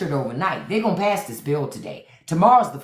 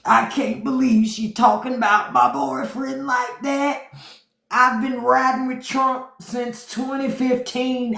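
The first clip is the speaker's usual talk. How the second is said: mock whiny Trump fan; 3 semitones higher than usual. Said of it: "they crying like they in a fucking relationship".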